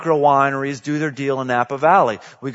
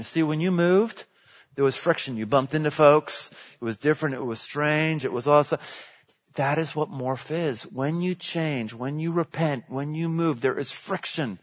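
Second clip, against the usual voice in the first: hushed preaching; 7 dB quieter than usual. Acted. Soft reflective stretch of sermon.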